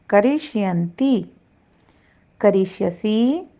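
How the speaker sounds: each future form spelled out slowly, syllable by syllable; slow careful recitation. Shown as a demonstration. Teacher to students, modelling pronunciation, slow and careful. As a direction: recite the forms deliberately for the class to copy. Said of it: "पहले इसका उच्चारण देखते हैं".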